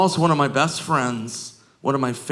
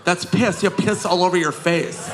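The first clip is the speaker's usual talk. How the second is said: put-on shocked girl; 5 semitones higher than usual. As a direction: gasp it out like a disgusted teenage girl. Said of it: "And Kristen goes".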